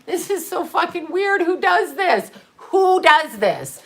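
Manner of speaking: high, incredulous giggle through the words; laughing disbelief. Retold or imitated. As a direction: laugh at how absurd it is. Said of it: "I was laughing because I was like".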